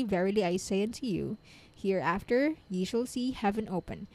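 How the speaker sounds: measured, fluent devotional reading; reading aloud. Real, not acted. Reader sharing scripture commentary with listeners, measured reading aloud. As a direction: read it out evenly with deliberate phrasing.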